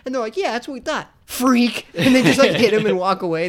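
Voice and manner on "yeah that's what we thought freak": mock bully taunt. Acting out bullies taunting Eric.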